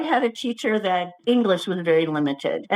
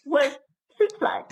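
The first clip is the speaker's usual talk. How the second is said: laugh-crying; 6 semitones higher than usual. Real, not acted. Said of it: "we should be laughing".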